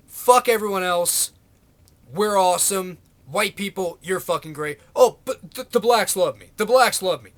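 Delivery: lightly voiced Trump bragging to his crowd; mock Trump swagger, only slightly put on; Trump impression. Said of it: "That's how he talks".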